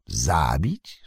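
a scornful echo of their threat; mock the word back at them; sneering question. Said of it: "uśmiechnął się szyderczo".

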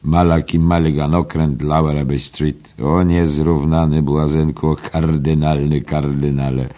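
a hint of hammed-up reverence; mock homage. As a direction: hail the sender like a clown cardinal. Mulligan mock-addresses the sender.

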